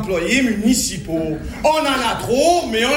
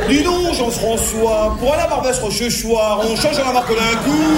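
forced Parisian accent. Shown as a demonstration. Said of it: "Je souffre".

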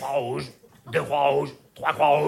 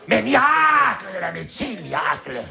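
exclamation triomphante; 3 semitones higher than usual. Acted. Exclamation exaltée dans le sketch. (exclamation triomphante, criée)

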